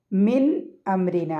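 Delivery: മിൻ അംരിന with the noon fully spoken, not hidden; careful recitation, a clear "n" closing മിൻ; clearly pronounced noon. Shown as a demonstration. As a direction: sound the "n" of മിൻ plainly before അംരിന. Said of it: "നൂനിനെ pronounce ചെയ്യും".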